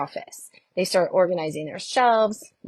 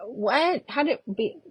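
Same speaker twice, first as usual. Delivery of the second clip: pitched up, puzzled what?; mock surprise; 6 semitones higher, slower than usual. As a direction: act thrown off by the invite. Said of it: "I'm like".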